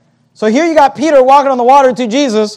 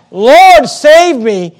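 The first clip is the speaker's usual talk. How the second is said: mildly raised cry for rescue; crying out for help; 3 semitones higher, 3 dB louder, much slower than usual. Retold or imitated. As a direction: retell a plea, calling out a little. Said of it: "and he cried".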